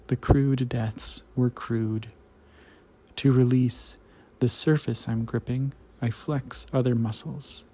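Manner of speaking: measured, deliberate poem recital; poetry reading. Acted. Host reads a poem to listeners, poetry reading. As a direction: read each line as verse, pausing after it.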